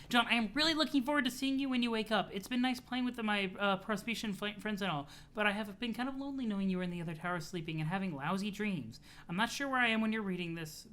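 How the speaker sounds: lightly voiced upbeat girl, often quick; chatty, slightly lifted letter-reading voice; letter-writer girl, friendly. Girl writing a birthday letter to her sleeping friend, friendly and eager. Reads the girl's letter aloud.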